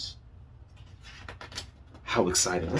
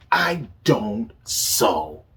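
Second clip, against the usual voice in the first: slow haughty refusal; 4 dB louder, much slower than usual. Acted. Walter refuses, story character.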